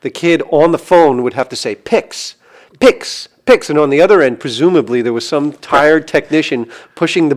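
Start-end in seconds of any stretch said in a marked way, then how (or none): 1.7-3.7 put-on high, loud kid yelling the word; excited kid. Kid on the phone firing the missile, loud and eager.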